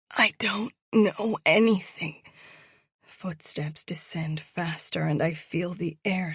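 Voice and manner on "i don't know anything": desperate plea. A narrator's reading. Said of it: "desperation clawing at my insides".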